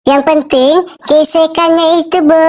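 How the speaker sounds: high, camp and breezy, stretched out; camp banci voice. Acted. Banci answering the jeering crowd, high and camp. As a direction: purr it like a flamboyant banci. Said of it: "tuh banci menjawab dengan santainya".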